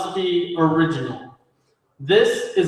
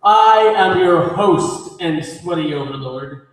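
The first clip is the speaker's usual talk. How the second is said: big announcer voice with drawn-out words; theatrical emcee; slower than usual. Acted. Emcee's theatrical show opening.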